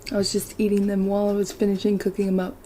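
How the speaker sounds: fast, chewing as she talks; mouth full. Real, not acted. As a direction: rattle it off through a mouthful. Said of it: "apologize for my rudeness of talking with my mouth full".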